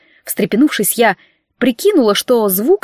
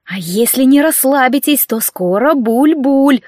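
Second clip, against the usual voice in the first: hissing threat; 3 semitones higher, slower than usual. Acted. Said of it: "прошипела я".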